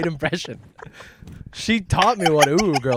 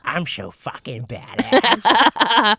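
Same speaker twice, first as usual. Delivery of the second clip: mock tough guy; 5 semitones higher, 6 dB louder, much slower than usual. Mocking the Joker's swagger.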